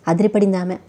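ordinary delivery, nothing marked

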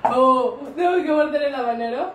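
loud, laughing dismay at the dare; laughing surprise. Real, not acted. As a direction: blurt it out half laughing. Realizes must bite habanero. (sorpresa entre risas)

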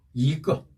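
"이" rising, "끄" short in neutral tone; second-tone 이. Shown as a demonstration. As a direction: lift "이", then let "끄" fall light. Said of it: "이 성으로 읽는다".

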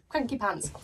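"Cranky pants" relished, a falling tune on "Cranky"; savouring the phrase. Shown as a demonstration. Repeating the tarot card's phrase for viewers, with relish. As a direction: roll "Cranky pants" around like a favourite word. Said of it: "I love that word".

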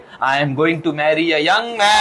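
very slow, teasing declaration; slow old lady boast. Retold or imitated. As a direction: announce it slowly with mischief. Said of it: "जोर से बोल रही है". (बहुत धीमी, शरारती घोषणा)

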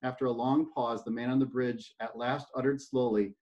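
steady read-aloud storytelling voice; story narration. A narrator's reading. Speaker reading a parable to a talk audience, storytelling voice.

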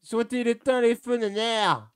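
high, insistent call. Pretend. Player asks his mate about the lights, calling out. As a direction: call it up high and draw out the name.

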